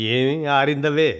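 slow, affectionate teasing question; fond teasing. Acted. Mother teasing her daughter, pinching cheeks, slow and fond. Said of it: "బొగ్గలు నొక్కుంటూ అడిగింది".

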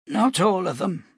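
put-on high old man's voice, firm; old prophet. Cade correcting the captain, firm old voice. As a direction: correct him firmly.

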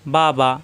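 বা বা said as two beats to show the length; timing demo. Shown as a demonstration. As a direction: tap out বা twice to measure one alif. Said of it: "দুইবার বা উচ্চারণ করতে যে সময় লাগে".

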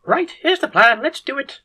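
high-pitched excited call; rallying cry. A narrator's reading. Head surgeon launching the plan to the team, high rallying cry. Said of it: "cries the head surgeon".

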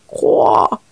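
croa breathed low with no voice; low whispered croak. Acted. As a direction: let the last croak die away. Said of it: "les croissements douloureux des grenouilles". (coassement chuchoté et grave)

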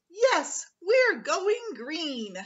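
high, loud, slow cheer; triumphant cheer. Acted. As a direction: punch the air as you say it. Teacher pumps her fist.

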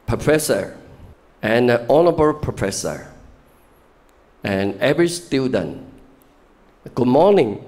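stiff, formal English greeting from a nervous student, rising loud at the end; nervous student's formal speech. Retold or imitated. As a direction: greet the class like an anxious foreign student at a podium. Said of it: "发表一定是要用英文嘛". (模仿紧张学生的正式英文开场)

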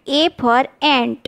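put-on very slow, each word spelled out for kids; slow classroom model reading; slow demo reading. Shown as a demonstration. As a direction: read it slowly so children can copy. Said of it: "ઉચ્ચાર શીખીશું".

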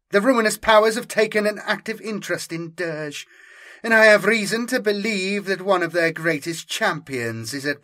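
lightly voiced grave Inquisitor. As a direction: make the threat sound dire. Inquisitor warns of Chaos.

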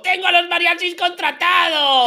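hammed-up, high-pitched heartbreak; wailing lament. Lamenta una boda cancelada. (lamento dolido y exagerado)

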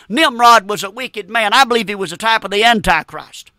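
emphatic, driving pulpit delivery; fervent preaching. Real, not acted. Preacher exhorting the congregation about hell and souls, fervent preaching. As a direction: preach it with conviction, leaning on key words.

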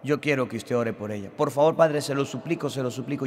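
retold tearful pleading. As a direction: plead like a distressed mother, mildly acted. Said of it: "Lloraba la mujer".

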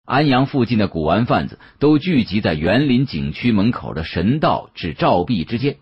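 usual speaking voice

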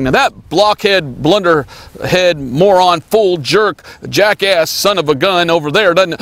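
slow, drawn-out mock insults; mock name-calling. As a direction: imitate someone piling up insults, each one punched out. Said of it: "You were not saying".

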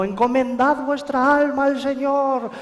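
high, drawn-out pious wail; frantic townsfolk. Acted. Villagers of Santo Domingo as everyone goes crazy, high hammed-up alarm. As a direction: cry it out high, hammed-up panic. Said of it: "La gente estaba toda como loca".

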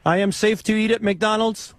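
put-on foreign accent, broken English. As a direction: prank caller with a fake foreign accent. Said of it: "why do you have an accent?".

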